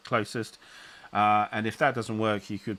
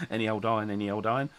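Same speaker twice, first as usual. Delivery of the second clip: Cockney; faster than usual. Pretend. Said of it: "Stickler's turning into a Cockney".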